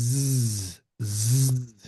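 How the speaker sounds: জ্জ as a long voiced buzz; buzzing z sound. Shown as a demonstration. Teacher demonstrates জ্জ as a voiced buzz. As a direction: hold জ্জ, throat vibrating. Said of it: "এই সাউন্ডটা উচ্চারণ হবে".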